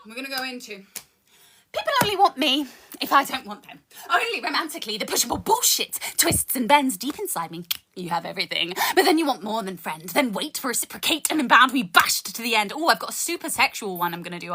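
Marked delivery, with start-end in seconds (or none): 1.8-12.7 rhythmic poetry recital with dark punchlines; spoken word poem. Acted. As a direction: perform it like a slam poem. Performs a second poem.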